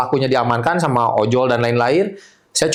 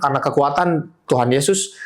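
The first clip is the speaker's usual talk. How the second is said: usual speaking voice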